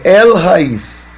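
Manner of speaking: very slow "El Raiz", each part drawn out; syllable-by-syllable reading. Shown as a demonstration. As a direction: stretch out "El", then "Raiz". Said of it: "no inverso de Israel". ("El Raiz" bem devagar, por sílabas)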